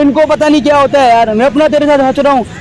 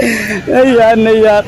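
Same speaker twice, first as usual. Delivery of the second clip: laughing; 2 semitones lower, slower than usual. Pretend. Still laughing into the phone.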